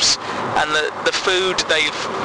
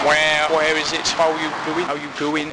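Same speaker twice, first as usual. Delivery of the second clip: flat Ross impression. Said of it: "It is pretty flat".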